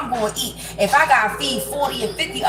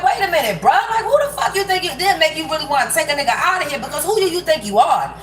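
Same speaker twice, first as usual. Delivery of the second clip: higher, half-laughing disbelief; incredulous pushback; 3 semitones higher, faster than usual. Retold or imitated. Rebuking a friend who demands money, higher amused disbelief. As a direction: push back on a greedy friend, amused and indignant.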